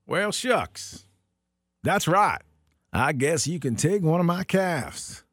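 easygoing country cowboy twang; fake cowboy accent. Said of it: "says Bud".

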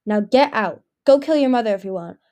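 cold banishment. Acted. Darkstalker banishes Anemone.

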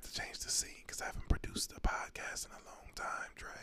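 spooky Halloween whisper; creepy whisper. Pretend. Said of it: "that's my Halloween voice".

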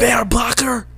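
put-on high, whispery German accent. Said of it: "say it with a German accent".

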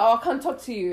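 quoting through laughter; giggling through the quote; laughing while quoting. Retold or imitated. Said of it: "he was like".

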